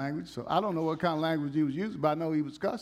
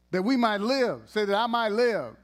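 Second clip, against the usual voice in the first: louder, higher call-out; preaching call; 4 semitones higher, 4 dB louder than usual. Real, not acted. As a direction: call it out for them to repeat. Preacher calling congregation to repeat.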